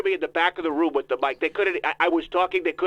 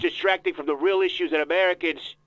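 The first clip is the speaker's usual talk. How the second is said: put-on voice of a self-important politician; Donald Trump voice. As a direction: interrupt like a pompous candidate. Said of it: "Mister Trump".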